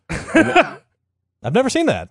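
laughing through the words, drawn out and high; amused disbelief, words stretched by laughter. Real, not acted. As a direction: crack up while saying it. Laughs at the wallet story.

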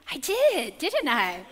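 high, amused mock sheepishness; sheepish admission. Wife owning up to husband, sheepish and laughing. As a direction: own up with a laugh, starting high and loud.

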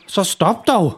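shouted. Acted. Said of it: "råber han".

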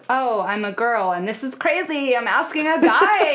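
put-on flustered girl.

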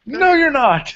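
very high, snooty dismissal; Ethan Carter's put-down. Retold or imitated. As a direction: shut him down with a sneer. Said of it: "And Ethan Carter goes".

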